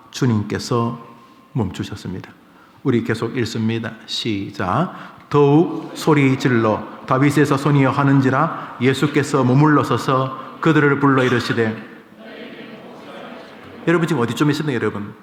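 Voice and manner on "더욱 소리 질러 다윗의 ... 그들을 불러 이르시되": loud, emphatic Bible reading; scripture reading aloud. Real, not acted. Preacher leads congregation reading the verse aloud, emphatic. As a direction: read the verse out forcefully.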